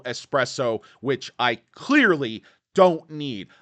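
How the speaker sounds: hyped time check. Real, not acted.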